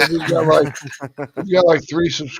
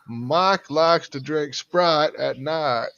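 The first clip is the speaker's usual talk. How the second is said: slow Southern drawl on "Mike likes to drink Sprite at night" with flat vowels; slow drawled Texan sentence; Texas accent; much slower than usual. Shown as a demonstration. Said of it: "you'll end up with".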